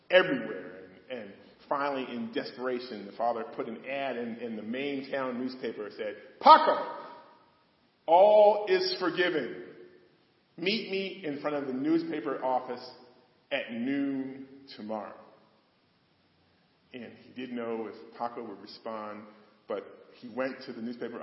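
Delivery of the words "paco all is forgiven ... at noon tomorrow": calling out. Retold or imitated. Father's newspaper ad calling son.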